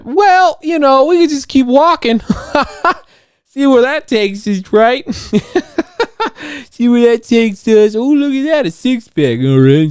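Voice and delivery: very high, goofy cartoonish squeal with giggles; silly head voice. Acting out his own head for listeners, high silly voice. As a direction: play the giddy voice inside your head.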